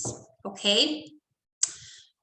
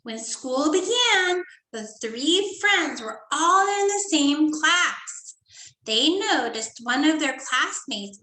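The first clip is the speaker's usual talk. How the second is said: put-on reading to children; 3 semitones higher than usual. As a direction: read it like story time for little kids. Teacher reads story to class.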